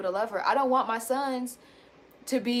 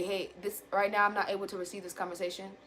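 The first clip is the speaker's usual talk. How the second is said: much softer, gentle ask; softer voice asking to come back later; soft calm request; 4 semitones lower, 9 dB quieter than usual. Shown as a demonstration. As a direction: quietly ask to talk later. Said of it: "I didn't say".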